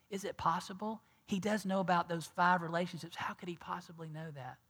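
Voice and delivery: hushed, breathless wonder; awed whisper. Acted. Preacher voices the woman's private amazement in a whisper. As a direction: whisper it like a secret realization.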